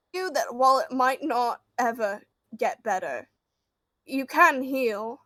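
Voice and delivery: slow, soft-spoken reassurance; gentle comfort. Acted. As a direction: ease his grief gently. Character comforts a grieving man.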